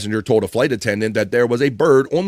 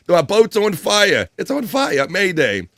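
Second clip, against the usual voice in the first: higher, slow, hammed-up distress call; mock panicked captain; 7 semitones higher, slower than usual. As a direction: ham up the captain's panic, slowly. Mimicking panicked boat captain.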